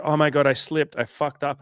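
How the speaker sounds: high, loud mock panic from a client; panicked client. Dieting client wailing to coach about slipping, in a high panicked mock voice. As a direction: play the client freaking out over a slip. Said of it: "they'll go".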